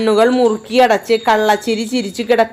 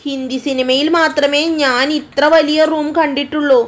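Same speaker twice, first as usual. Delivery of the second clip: higher, wide-eyed astonishment; amazed girl; 5 semitones higher than usual. Acted. Girl amazed at the huge bedroom, higher voice. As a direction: gasp at a palace of a room.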